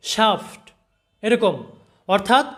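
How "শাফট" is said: শাফট said as "shaft" with an open a; spelled-out pronunciation. Shown as a demonstration. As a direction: model শাফট slowly for learners. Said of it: "শয়াকার সা এবং ফয় ট".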